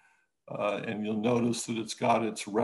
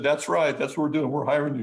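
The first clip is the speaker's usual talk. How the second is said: louder, emphatic mock confirmation; imitating caller confirming; 3 semitones higher, 6 dB louder, faster than usual. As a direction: play the caller firmly confirming.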